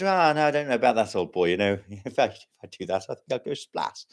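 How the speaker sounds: lightly voiced old-boy Englishman; a hint of English-gent caricature; joke Englishman. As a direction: play the hesitant Englishman lightly. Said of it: "And the Englishman said".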